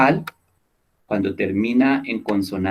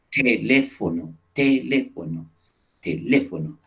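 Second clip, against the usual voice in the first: teléfono said slowly, leaning on the lé; stressed syllable demo. Shown as a demonstration. Teacher showing the class where teléfono takes its stress. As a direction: repeat teléfono, pushing the lé harder. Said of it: "en cuál de esas sílabas estás haciendo el mayor esfuerzo".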